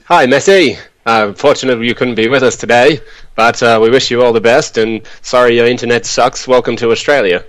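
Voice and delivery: put-on old-time newsreel announcer, lightly done; a touch of vintage radio voice; 1940s voiceover. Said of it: "that typical, uh, nineteen forties voiceover that you do".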